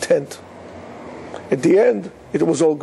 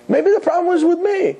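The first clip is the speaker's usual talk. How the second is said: tearful lament, higher; 11 semitones higher than usual. Retold or imitated. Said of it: "And he's crying".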